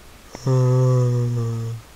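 long loud drawn-out zombie moan; zombie groan. Pretend. Gamer doing a loud zombie groan at the screen. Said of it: "That's my best impression of a zombo".

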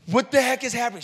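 high, loud, incredulous outburst; retold shock. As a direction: act out being totally aghast. Retold shock at her behaviour.

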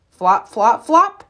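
playful flop rhythm; flopping sounds. A narrator's reading. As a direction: bounce the flops, landing big on the last.

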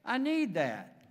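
a hint of a man impatient for his truck; lightly voiced eager fellow. Friend gushing about the truck, mildly excited. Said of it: "He said".

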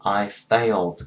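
"I failed" with the ending d; "I failed" model take; correct failed. Shown as a demonstration. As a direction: repeat "I failed" clearly. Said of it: "Không phải I fail".

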